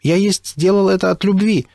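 put-on confused broken Russian with an English accent; a lost foreigner defending himself; bewildered, English accent. A narrator's reading. William answering the accusation, bewildered and accented. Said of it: "растерянно ответил Уильям".

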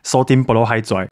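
put-on "sodium borohydride" in Mandarin-accented English; teacher's chemical pronunciation. Recalling chemistry teacher, accented "sodium borohydride". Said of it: "然后他就念sodium borohydride".

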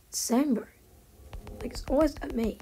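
ordinary talk

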